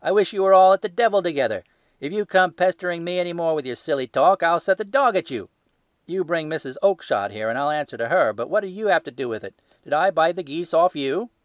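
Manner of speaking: loud, fast, furious tirade; angry shouting. A narrator's reading. Salesman yelling at the pestering little man, furious. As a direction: drive the man off with every word. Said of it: "he shouted".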